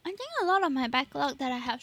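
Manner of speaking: talking while chewing; mouth full. Real, not acted. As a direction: speak through a mouthful. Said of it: "I'm talking with my mouth full".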